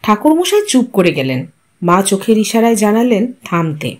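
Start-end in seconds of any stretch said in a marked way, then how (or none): none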